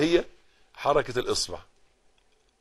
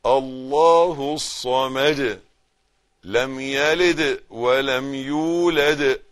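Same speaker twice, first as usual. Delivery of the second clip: slow, measured Quran recitation; much slower than usual. Shown as a demonstration. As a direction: recite each verse unhurried. Recites surah slowly.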